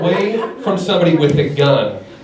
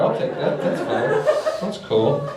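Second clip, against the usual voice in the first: quiet resigned aside; 6 dB quieter, slower than usual. Real, not acted. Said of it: "resigned aside".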